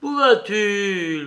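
high, loud, slow scared call; frightened cry. A narrator's reading. Soldier to his comrade walking off, frightened cry. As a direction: cry out after him in fright. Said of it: "cria d'une voix effrayée".

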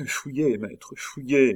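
strained but unshouted warning; murmured urging. A narrator's reading. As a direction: beg your master to run. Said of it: "murmura Remy".

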